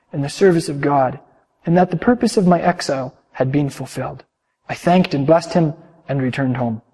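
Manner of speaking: storyteller reading to the congregation; calm sermon storytelling; story narration. A narrator's reading. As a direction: tell it gently, like reading a tale aloud. Reads a long story aloud.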